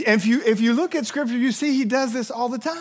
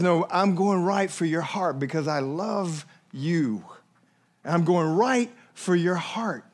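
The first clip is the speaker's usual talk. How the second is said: tender; 4 semitones lower, 3 dB quieter than usual. Acted. Jesus telling the ruler he loves him, soft and tender.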